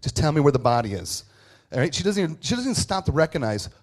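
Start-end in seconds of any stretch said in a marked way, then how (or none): 0.0-1.2 loud, mock-impatient demand; impatient, no time for it. Mary to the angel about the body, impatient. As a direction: cut through the angel's chatter. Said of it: "she has no time for it".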